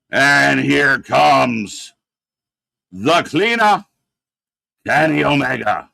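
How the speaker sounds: very slow, drawn-out entrance announcement; mock ring announcer. Host announcing Kenny Omega's entrance, mock grand announcer. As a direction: stretch every word like a big introduction.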